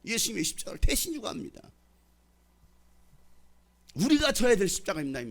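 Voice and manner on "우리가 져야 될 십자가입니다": emphatic. Acted. Preacher repeats line, then softly.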